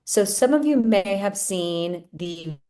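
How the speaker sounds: slow, choppy breaking-up connection; words dragging through a bad line; glitchy call audio. Real, not acted. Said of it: "'cause you're breaking up a bit".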